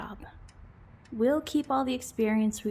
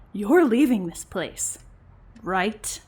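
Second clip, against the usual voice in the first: firm command; 3 semitones lower, 3 dB louder, slower than usual. Acted. Ordering ex out.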